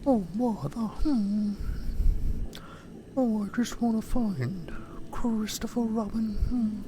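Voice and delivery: high, slow airy bear voice with hums; dreamy honey-loving bear; Winnie the Pooh voice. Shown as a demonstration. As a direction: Pooh wondering about honey. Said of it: "start talking like".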